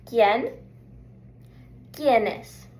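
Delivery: ¿Quién? and ¿Quiénes? said clearly for the class to repeat; Spanish pronunciation. Shown as a demonstration. Teacher says ¿Quién? for students to echo, clearly. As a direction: model each word. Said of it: "Repeat after me".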